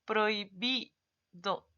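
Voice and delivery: "Prohibido" drawn out very slowly, the vowels joined; slow example word. Shown as a demonstration. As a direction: slowly say "Prohibido" so the diphthong is heard. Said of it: "¿Ve?".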